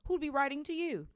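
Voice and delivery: mocking, scornful question; sneering. A narrator's reading. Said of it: "sneered Uncle Vernon".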